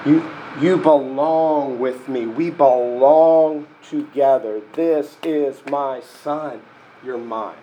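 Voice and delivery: put-on slow and gentle, like a father reassuring his child; a hint of a loving father, unhurried; tender father's voice.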